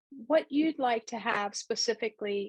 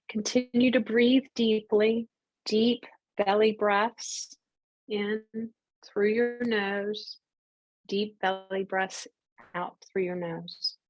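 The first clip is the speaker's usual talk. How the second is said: guided breathing. Real, not acted. Reiki teacher leading the group through belly breaths, guided breathing.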